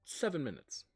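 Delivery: lilting, nonchalant excuses, pitch leaping high then dropping; lightly voiced evasive deity; breezy god character. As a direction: brush off the question with airy self-defence. GM plays Samhain answering friend.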